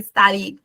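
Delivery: study como «studied», con D al cierre; D final marcada. Shown as a demonstration. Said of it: "siempre marcando la, la D al final". (study terminado en consonante D)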